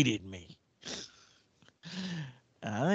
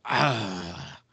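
disgusted ah; 2 semitones lower than usual. Retold or imitated. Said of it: "just disgusted, like".

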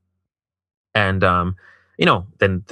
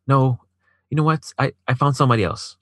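lightly mimicked girlfriend, pitched higher; mimicked rejection; 6 semitones higher than usual. Man imitating girlfriend who found somebody else, mock dismissive. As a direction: voice her brush-off in a higher pitch.

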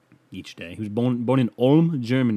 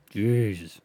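said out loud with a bit more push; louder exasperation; 3 dB louder than usual. Real, not acted. Host fed up with his mic, exclaims it out loud. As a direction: exclaim it openly this time.

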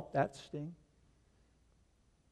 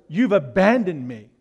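anguished lament; 6 semitones higher, 10 dB louder than usual. Retold or imitated. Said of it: "In other words".

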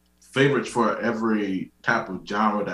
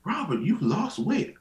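high, slow, singsong doctor voice; imitating doctor; 10 semitones higher than usual. Doctor telling patient about weight, high slow imitation. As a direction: mimic the doctor, stretched and pitched up.

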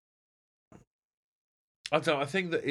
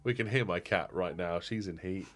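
ordinary talk

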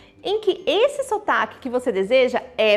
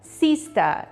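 British accent; much slower than usual. Shown as a demonstration. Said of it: "Então esse E R vai ser a".

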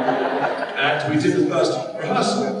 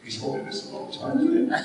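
laughing; 14 semitones higher, 6 dB quieter than usual. Retold or imitated. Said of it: "I go".

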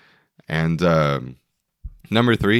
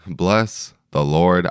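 slow, drawn-out praise; slow emphatic; much slower than usual. Real, not acted. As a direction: stretch each word out reverently. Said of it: "did I have a hangover".

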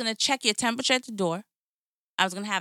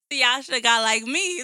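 crying laughing; 2 semitones higher than usual. Real, not acted. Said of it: "Look, she crying".

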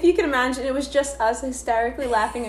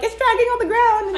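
higher-pitched mock complaint; retold exclamation; 9 semitones higher, 3 dB louder than usual. Retelling her own reaction to friends, high exclamation. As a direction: raise your voice in mild exasperation.

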